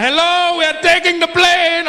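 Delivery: mock formal hijacker call; hijacker announcement. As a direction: announce the takeover in a lightly put-on voice. Acting out a hijacker announcing takeover.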